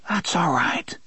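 soft breathy reassurance whispered in the dark; dry whisper. A narrator's reading. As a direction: whisper to calm the animal. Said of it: "Jake whispered in a dry voice".

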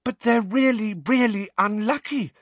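high-pitched alarmed schoolgirl; Parvati, alarmed. A narrator's reading. Pupil interrupting her teacher about unlucky creatures, alarmed. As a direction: pipe up high, full of worry. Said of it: "looking alarmed".

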